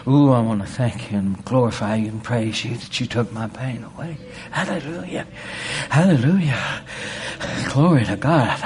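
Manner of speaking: rising praise, pitch jumps on hallelujah; mock praise. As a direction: act out thanking God for the healing. Acting out praise for healing.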